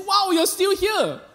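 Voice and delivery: high, slow amazed wonder; surprised to find his old teacher still at school, high and slow. Retold or imitated. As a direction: draw it out in mock amazement. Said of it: "I said".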